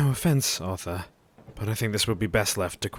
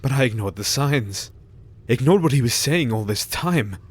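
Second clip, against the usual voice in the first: louder, self-blaming cry; anguished outburst; 3 semitones higher, 5 dB louder than usual. Acted. Jack confessing he ignored Renfield's warnings, louder. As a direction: rise into guilty anguish.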